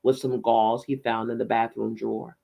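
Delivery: lively, measured audiobook reading; story narration. A narrator's reading. Reading a novel aloud to listeners, story narration. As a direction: narrate it with gentle emphasis.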